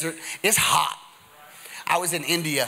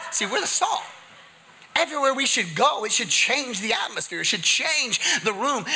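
impassioned preaching; 6 semitones higher than usual. Real, not acted. Preaches at full force.

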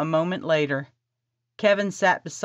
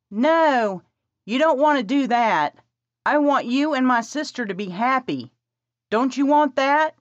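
put-on eager young woman; 8 semitones higher than usual. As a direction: rush the plan, bossy and eager. Presley voiced by narrator.

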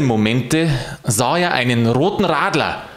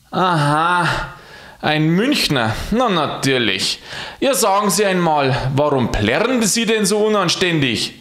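higher, mildly exasperated divine voice; God scolding; 6 semitones higher than usual. Acted. God scolds Alois, higher and exasperated. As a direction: tell off the noisy Munich man. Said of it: "dieser sprach".

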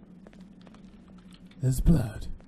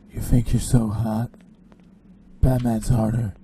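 lightly put-on tough Batman; a hint of a throaty superhero; 2 semitones lower, 3 dB louder than usual. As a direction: play Batman with throat strain. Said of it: "hurt my throat to do that".

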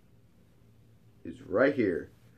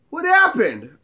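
higher-pitched startled question; imitated puzzled friend; 8 semitones higher, 4 dB louder than usual. Hot friend walking up, imitated higher-pitched puzzlement. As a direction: play the friend, taken aback.

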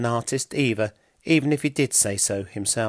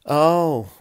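groan; 5 semitones higher, 6 dB louder than usual. A narrator's reading. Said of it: "groaned Pilk".

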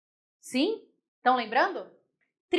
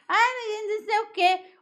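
high-pitched imitation of complaining students; teasing, high mock moan; mock whining; 10 semitones higher, 3 dB louder, slower than usual. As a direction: whine it like a moaning pupil, in jest. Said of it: "vocês choram muito".

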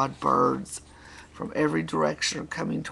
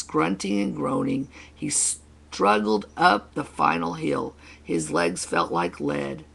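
storyteller building toward the finish; story reading; 3 dB louder than usual. Acted. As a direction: read it to children as a determined uphill struggle. Reads picture book to children.

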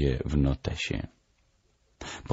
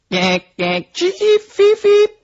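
very high parrot squeaks; shrill chirping bird imitation; bird language; 6 dB louder than usual. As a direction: squeak it out in short bird calls. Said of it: "To znaczy po ptasiemu".

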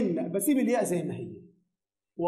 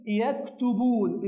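يكتبون drawn out syllable by syllable, slowly; slow model word; much slower than usual. Shown as a demonstration. Teacher modelling the verb slowly for students. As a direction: spell out يكتبون slowly for the class. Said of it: "من الأفعال الخمسة ومتصل بواو الجماعة".

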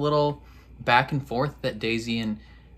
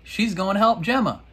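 answering the show; 6 semitones higher than usual. Retold or imitated. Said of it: "And I was like".

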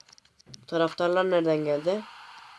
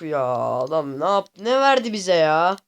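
frustrated outburst; 4 dB louder than usual. Real, not acted. Angry at bad reward.

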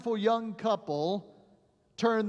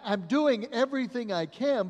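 "I'm doing everything I can" raised, higher, pushed hard on "doing"; urgent raised insistence; doctor pleading; 5 semitones higher, 5 dB louder than usual. Retold or imitated. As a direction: plead it loudly, hands up. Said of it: "And the doctor replied".

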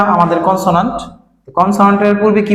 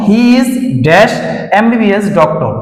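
reading the example aloud slowly; much slower than usual. Shown as a demonstration. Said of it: "যেমন দেখো".

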